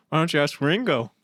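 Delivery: lilting mock Liverpool accent. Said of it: "I just started doing the Beatles".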